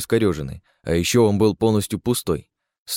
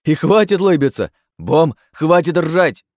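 higher, louder, indignant; indignant yell; 8 semitones higher, 7 dB louder, slower than usual. Acted. Chief to laughing orcs, a high indignant yell. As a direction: shout them down.

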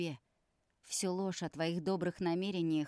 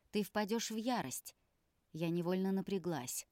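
plain reading voice

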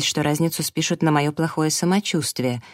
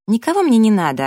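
higher, louder irritated snap; snapping; 6 semitones higher, 6 dB louder than usual. A narrator's reading. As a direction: bite back at him. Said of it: "огрызнулась я".

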